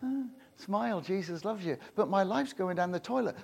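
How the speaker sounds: lightly voiced fake-cheerful believer; a hollow chirpy smile in the voice; mock bright Christian cheer; fake cheery. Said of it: "false grin on your face".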